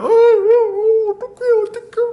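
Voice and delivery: high, slow, broken mock sobbing; imitating sobbing girls. Preacher mimics church girls sobbing at the skit, mock crying. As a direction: wail it like a weeping church girl. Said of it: "교회 자매님들 막 엉엉 우는 거예요".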